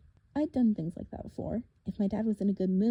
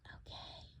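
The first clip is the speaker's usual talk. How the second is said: breathy unvoiced whisper; 20 dB quieter than usual. Girl whispering to Percy about the madman, whisper. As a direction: whisper it to your friend. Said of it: "Bianca whispered to me".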